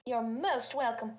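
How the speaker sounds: slow, grand pompous voice. Pretend. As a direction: say it like a self-important aristocrat. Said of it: "I don't know why I brought out this pompous voice".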